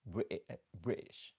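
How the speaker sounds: imitated British accent on "British". Shown as a demonstration. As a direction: try out a British "British". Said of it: "I love the accent".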